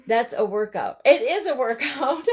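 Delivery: breathless from rolling clay; puffing between words; out of breath. Real, not acted. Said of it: "I'm out of breath and everything".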